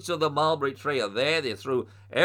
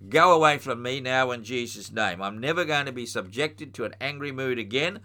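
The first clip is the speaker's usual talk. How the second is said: commanding rebuke. Shown as a demonstration. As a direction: order the anger out with authority. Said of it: "and you say".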